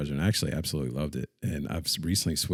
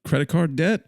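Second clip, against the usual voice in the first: loud, raised-pitch ad voice; mock radio commercial; 8 semitones higher, 5 dB louder than usual. Imitating a car radio commercial, mock ad pitch. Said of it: "radio commercial will be on".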